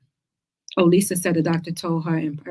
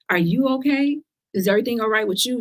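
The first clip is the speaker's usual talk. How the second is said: higher-pitched, turned-back concern; pointed echo of pity; 5 semitones higher than usual. Retold or imitated. Survivor answering a pitying acquaintance, pointed echo. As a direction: throw their pitying question back at them. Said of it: "you look at them like".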